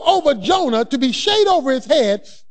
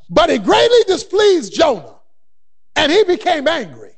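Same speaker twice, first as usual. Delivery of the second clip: booming; 4 dB louder than usual. Acted. Preacher booms the story.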